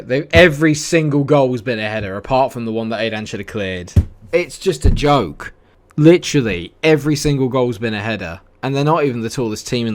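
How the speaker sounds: real frustration; exasperated rant. Real, not acted. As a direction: vent at the ridiculous goals. Complaining about conceded headers.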